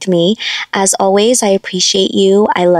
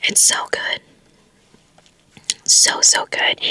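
soft breathy whisper, close to the mic; ASMR whisper; 5 dB quieter than usual. Shown as a demonstration. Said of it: "I can never do A S M R".

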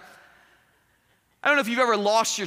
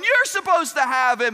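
raised-voice acted retort; loud mock squabble, pitched up; arguing; 4 semitones higher, 5 dB louder than usual. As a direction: fire the blame straight back. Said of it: "they're arguing back and forth".

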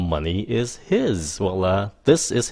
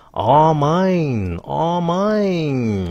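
possessive glee; 7 semitones higher, much slower than usual. Pretend. Playful possessive demo.

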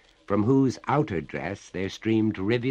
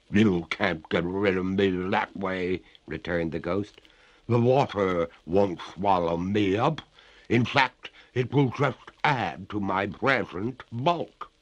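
louder, eerie and stretched out; defiant water ghost; 4 dB louder than usual. Acted. The ghost defies the master.

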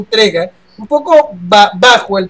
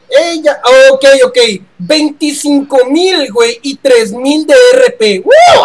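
excited; 4 semitones higher, 3 dB louder, slower than usual. Real, not acted. Excited about reward.

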